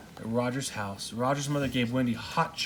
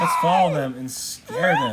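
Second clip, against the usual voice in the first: shouting over noise; 9 dB louder than usual. Real, not acted. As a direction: shout the line above the racket. Narrator shouting over kids.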